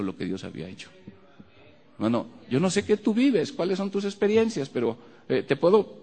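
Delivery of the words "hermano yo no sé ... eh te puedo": fervent appeal. Real, not acted. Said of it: "direct appeal to listener".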